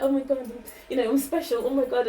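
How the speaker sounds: a hammed-up giddy gush; playful imitation of over-excited seekers; mock giddy. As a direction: gush like someone thrilled to be special. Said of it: "you get giddy, like".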